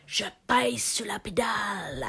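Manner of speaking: playful whispered effort, as if braking; mock straining whisper. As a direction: push it out in a voiceless mock strain. Mock braking after being told slow down. (chuchotement forcé, pour rire)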